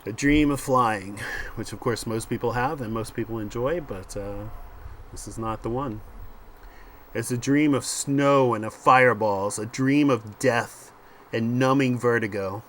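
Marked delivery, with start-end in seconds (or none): 0.1-1.2 measured scene-setting, slowing on key phrases; comic-book caption read aloud; dramatic story narration. A narrator's reading. 7.1-12.6 measured scene-setting, slowing on key phrases; comic-book caption read aloud; dramatic story narration. A narrator's reading.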